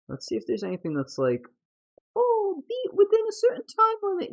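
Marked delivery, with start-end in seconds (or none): 2.2-4.3 mock squeaky voice. Mock quoting achievement text.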